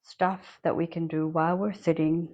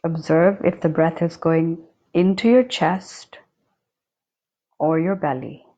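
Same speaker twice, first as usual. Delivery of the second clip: unhurried meditation guide with long silent pauses; guided meditation. Acted. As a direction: guide them calmly, leaving long spaces between phrases. Leads a breathing meditation.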